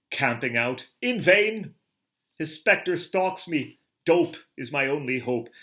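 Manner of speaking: hammed-up melodrama villain lament; anguished cry. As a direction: cry out against the haunting spectre.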